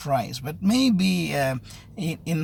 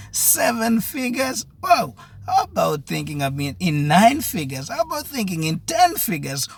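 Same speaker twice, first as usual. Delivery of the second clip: rising into an amazed, high exclamation; higher, mounting excitement; excited build-up; 5 semitones higher than usual. Real, not acted. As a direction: get carried away as the numbers climb. Escalating figures to an excited wow.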